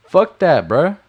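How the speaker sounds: sudden outburst. Real, not acted. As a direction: slam the daydream shut, bruh. Snapping at a complacent viewer.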